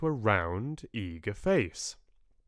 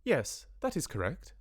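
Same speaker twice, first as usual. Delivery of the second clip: higher, measured, careful diction; careful spelling-out; 7 semitones higher, 3 dB quieter than usual. A narrator's reading. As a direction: confirm it word by careful word. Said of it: "spelling the words out carefully".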